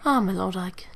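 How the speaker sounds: gentle British princess; soft-spoken lady with a British accent; Elincia. Acted. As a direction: play a courtly British princess. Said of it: "I give Elincia a, a British accent".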